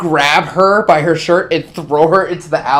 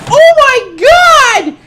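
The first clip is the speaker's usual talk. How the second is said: high, shocked cry; horrified woman; 6 dB louder, slower than usual. Acted. Woman staring down the alley at the feeding, shocked high cry. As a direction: gasp it out as a stunned passerby. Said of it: "that woman's just like".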